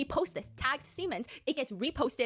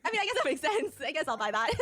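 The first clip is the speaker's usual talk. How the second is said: amused, won over, laughing through it; laughing mock buyer; 4 semitones higher, 3 dB louder than usual. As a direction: giggle while giving in. Mock customer convinced, laughing.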